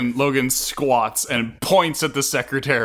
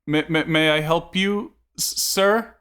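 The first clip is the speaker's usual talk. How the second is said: nervous secretary; 5 semitones higher than usual. Acted. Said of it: "the secretary goes".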